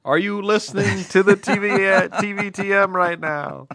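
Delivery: loud, high street call to strangers; playful loud call-out with a laugh. Pretend. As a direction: hail passers-by from the street. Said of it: "sort of call out".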